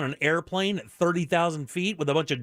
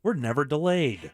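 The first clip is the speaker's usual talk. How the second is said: mock airline slogan. Mock airline slogan being performed.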